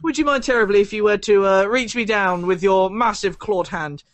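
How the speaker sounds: overly polite coaxing. Acted. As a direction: sweet-talk the demon like a butler. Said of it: "You, uh, you say to your demon".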